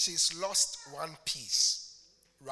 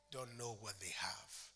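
soft unvoiced question; whispered; 9 semitones lower, 14 dB quieter than usual. Real, not acted. Preacher asking the congregation softly, whispered. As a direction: drop to a whisper.

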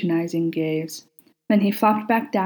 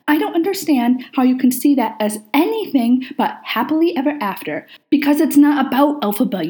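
raised, fired-up arguing voice; heated argument; 4 semitones higher, 4 dB louder than usual. Acted. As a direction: press the point passionately, louder. Heated musical argument with Aziraphale.

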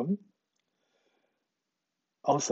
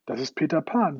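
cheering; 3 semitones higher, 5 dB louder than usual. Acted. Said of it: "jubelte Michael fröhlich".

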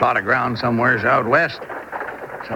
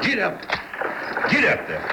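high, urging call to the team; calling to horses; 10 semitones higher, 4 dB quieter than usual. Acted. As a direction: drive the horses on from the wagon seat.

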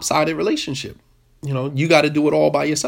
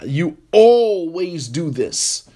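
accusing spouse; much slower than usual. Retold or imitated. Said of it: "It's like".

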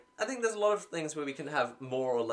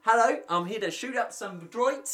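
Kaminoan voice; 8 semitones higher, 6 dB louder than usual. Retold or imitated. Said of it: "the Kaminoans like".

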